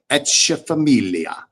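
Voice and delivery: Echeferria stretched slowly as "etch-uh-fuh-MEEL-yuh"; own pronunciation. Shown as a demonstration. Host repeating how he says a viewer's name, Echeferria slowly as "etch-uh-familia". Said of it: "That's how I say it".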